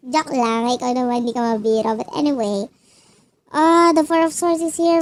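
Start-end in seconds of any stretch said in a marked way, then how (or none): 0.0-0.7 laughing. Real, not acted. Laughing after dark joke.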